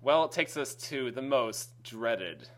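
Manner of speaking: slow, low villainous announcer; ominous drawn-out announcement; sneering panto villain. Acted.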